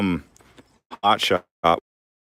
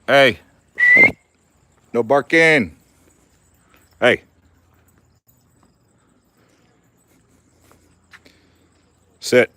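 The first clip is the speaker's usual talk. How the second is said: raised voice, high and loud to the dog; firm dog command; 7 semitones higher, 8 dB louder, slower than usual. Real, not acted. Owner shouting at his barking dog, firm and loud. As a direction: call out sharply to stop the barking.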